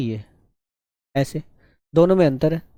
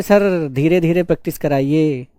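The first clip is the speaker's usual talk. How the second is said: mock slow plea; slower than usual. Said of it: "जो practice नहीं कर रहे हैं".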